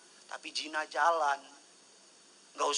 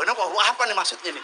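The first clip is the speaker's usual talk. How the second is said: fast, louder, laughing through it; laughing question; 5 semitones higher, 9 dB louder, much faster than usual. Real, not acted. Pastor cracking up at his own pun, laughing fast. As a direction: giggle out the words.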